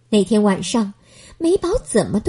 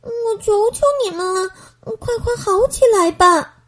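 gentle plea; 9 semitones higher than usual. Acted. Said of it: "美宝轻轻地对这些花儿说".

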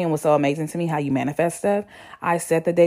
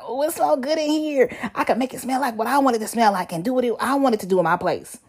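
bubbly thrilled squeal; high excited delight; 7 semitones higher than usual. Retold or imitated. Quoting excited self.

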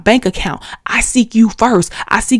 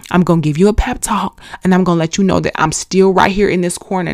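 God comforting her. Pretend. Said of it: "because he's like".

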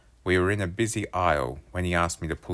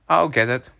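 calling out; 7 semitones higher, 8 dB louder than usual. A narrator's reading. Answering the door.

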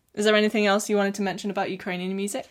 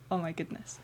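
awed hush; 10 dB quieter than usual. Retold or imitated. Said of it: "the audience were just like".

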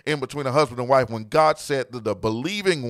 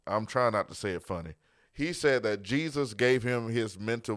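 calm retelling; 4 semitones lower, 6 dB quieter than usual. Real, not acted. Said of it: "I wanna say this calmly".

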